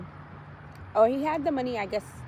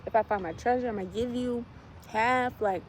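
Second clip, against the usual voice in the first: mock pleading. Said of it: "He's begging and pleading".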